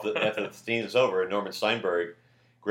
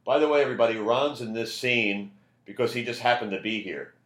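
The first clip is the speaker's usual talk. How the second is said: raised, higher voice addressed to everybody; imitated announcing yell; 4 semitones higher, 3 dB louder than usual. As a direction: call it out to the whole room, half-yelled. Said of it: "just yells to everybody".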